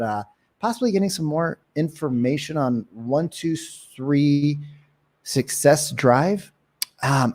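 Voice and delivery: slow, casual opener with ums and pauses; unhurried script demo. Shown as a demonstration. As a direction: ease through it, drawing out the company and offer. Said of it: "This is what you'd say".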